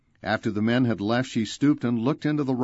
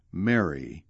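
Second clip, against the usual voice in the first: tender; 5 semitones lower than usual. A narrator's reading. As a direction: say the name gently and low. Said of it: "the tender accent she had heard and loved".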